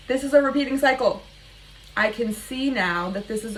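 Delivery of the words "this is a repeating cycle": emphatic repeat. Real, not acted.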